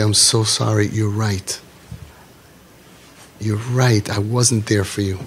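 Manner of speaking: softly spoken, gently sincere; compassionate apology. Acted. Parent apologising to a hurting child, soft compassion. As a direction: model a tender apology, letting the level drop. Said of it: "look at them with compassion".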